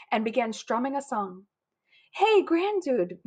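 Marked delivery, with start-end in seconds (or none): 2.1-3.2 high, drawn-out moo of a greeting; friendly cow voice, stretched vowels. A narrator's reading. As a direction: moo the words slowly. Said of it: "mooed some friendly cows".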